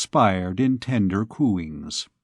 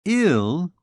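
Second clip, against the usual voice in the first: alarmed; 6 semitones higher than usual. Acted. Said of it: "she repeated in alarm".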